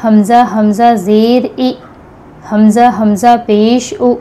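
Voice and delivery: slow drill of हमज़ा with a catch in the throat before each vowel; jerky glottal stop. Shown as a demonstration. Teacher drilling students on the hamza sound, slow and deliberate. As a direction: say हमज़ा ज़ेर ए with a clipped glottal jolt. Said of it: "हमज़ा की आवाज़ में झटका आएगा".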